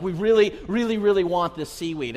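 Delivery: pleading mock child, leaning on each really; kids begging. Kids begging dad for seaweed in Costco, pleading. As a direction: plead like kids who badly want it.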